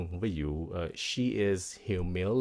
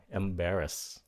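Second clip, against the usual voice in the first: "embarrassed" with the beat on BAR; second-syllable stress; slower than usual. Shown as a demonstration. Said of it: "Nhấn âm thứ hai".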